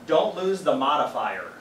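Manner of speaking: "modifier" stretched out and pressed hard; a teacher marking the key word; stress on modifier. Shown as a demonstration. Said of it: "Notice that I stressed the word modifier".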